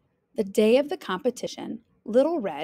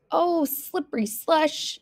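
put-on high-pitched, frustrated young heroine; exasperated exclamation; 7 semitones higher than usual. Little Red slumps at Grandma's, exasperated. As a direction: complain with a mock curse.

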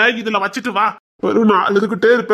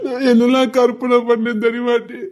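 mock sobbing; 2 semitones higher than usual. Husband fake-crying to his wife, sobbing complaint. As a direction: sob the complaint like a sulking child. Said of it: "ஏங்க அழாதீங்கங்க".

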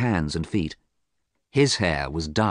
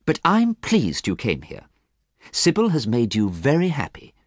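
kind reassurance in a raised pitch; kindly; 6 semitones higher than usual. A narrator's reading. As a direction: reassure a friend, lifting the pitch. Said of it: "Basil spoke kindly to Dorian".

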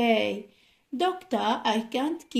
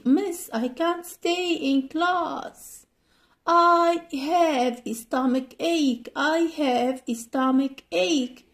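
role play pupil; 4 semitones higher than usual. Acted. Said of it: "role play".

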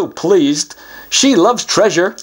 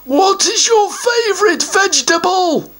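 a troll barking the next question; 13 semitones higher than usual. Acted. Guardian troll voice.

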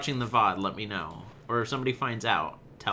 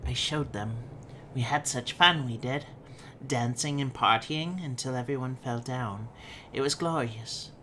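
lightly voiced note writer reliving the party; a touch of wistful, childlike glee; child-like diary writer, gleeful. Reading a creepy diary about a party, lightly voiced. Reads an in-game diary aloud.

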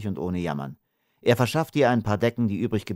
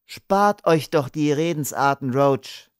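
sudden firm outburst, higher; forceful; 7 semitones higher, 4 dB louder, slower than usual. A narrator's reading. Kath cuts off Roach's talk, suddenly forceful. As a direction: cut him off with energy. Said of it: "sagte Kath plötzlich energisch".

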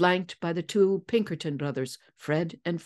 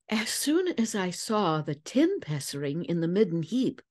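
Lizzie voiced. Lizzie explains her deduction.

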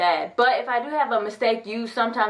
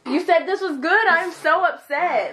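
mock upset; 5 semitones higher, 3 dB louder than usual.

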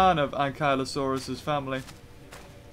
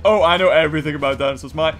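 fast, scoffing know-it-all, a bit louder; mock snob; 2 semitones lower, 3 dB louder than usual. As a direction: parody a sneering dinosaur snob. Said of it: "Almost like".

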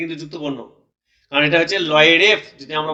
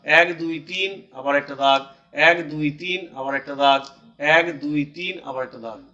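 slow counting in threes; 2 semitones lower, slower than usual. Shown as a demonstration. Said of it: "তিনটে তিনটে করে আমরা ভাগ করবো".

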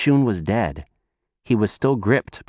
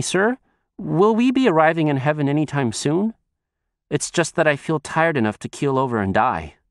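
higher, polite questioning character voice; lightly voiced boy; 6 semitones higher than usual. Shun asks the old man about arriving, polite boyish appeal. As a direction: lightly play a youngster appealing to an elder.

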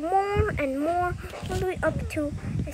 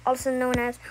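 low, level monotone; put-on character voice; 3 semitones lower than usual. Negative Three announcing the win, low voice. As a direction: declare it evenly, low. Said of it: "this is just a good voice impression".

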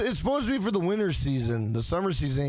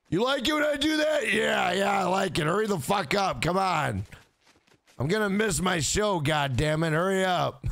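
unenthused sex operator; 3 semitones higher than usual. Pretend. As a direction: fake come-on turning into mock impatience. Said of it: "very unenthused to be a sex operator".

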